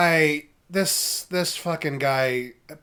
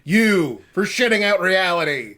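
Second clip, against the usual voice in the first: mock scolding; 4 semitones higher, 5 dB louder than usual. Player voices wizard scolding.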